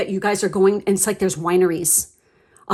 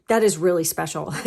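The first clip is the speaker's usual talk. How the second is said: laughing delight. Real, not acted. Reader delighted by the proposal, breaking into laughter. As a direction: giggle at how special it is. Laughs about the special moment.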